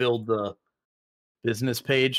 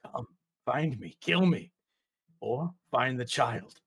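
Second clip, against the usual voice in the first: low hissing whisper; 4 dB quieter than usual. Acted. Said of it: "first voice comes back and says".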